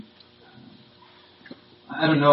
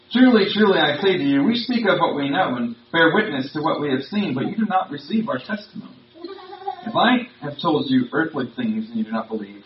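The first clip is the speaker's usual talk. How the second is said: measured, earnest Bible reading; scripture reading. Acted. Preacher reads the passage to his church, measured and earnest. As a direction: read the passage to the congregation.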